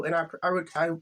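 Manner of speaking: nervous stutter on I. Real, not acted. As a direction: stumble on repeated I. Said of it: "sorry for the stuttering".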